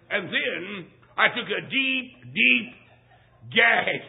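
comic gagging punchline. Retold or imitated. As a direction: build up, then choke out gag. The punchline after the drag.

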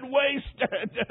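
understated broken repeat of wasted; retold sob. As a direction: let wasted fall away like a sob. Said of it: "Then he sobbed and said".

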